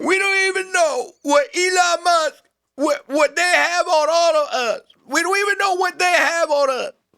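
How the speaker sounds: high-pitched female voice. Quoting a remark made at a hearing, imitating a woman from a hearing. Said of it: "I'll do her voice better than her".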